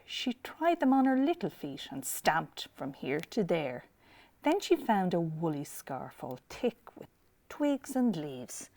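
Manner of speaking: put-on lilting read-aloud for children; picture-book narration; storytelling. A narrator's reading.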